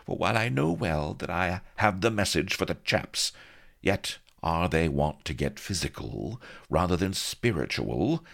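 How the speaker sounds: a hint of an archaic damsel; lightly voiced prim lady. Vanity telling Blood about Pugh's reverence, lightly voiced. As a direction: explain with prim puzzlement.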